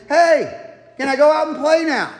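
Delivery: put-on kid voice. Kid pestering parent to go play, lightly voiced.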